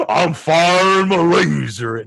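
slow robot voice. Retold or imitated. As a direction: drone it out like a robot. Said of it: "That's a cool sound cue for that".

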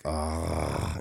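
low, soft groaning "ah"; asleep-sounding breath. Retold or imitated. Podcaster repeating coworker's noisy breathing, low sleepy groan. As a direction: imitate heavy sleepy breathing, pitched low. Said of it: "You should not sound asleep when you awake".

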